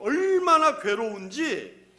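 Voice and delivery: "얼마나" stretched long, high and loud; emphatic anguish. Real, not acted. Preacher urges listeners to see the tormented demon, heavy stress on "얼마나". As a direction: belt out a long "얼마나" in agony. Repeats the torment more forcefully.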